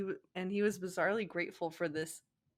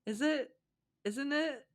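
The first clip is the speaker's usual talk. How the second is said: giggly Sakura line; 6 semitones higher than usual. Acted. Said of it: "she giggled".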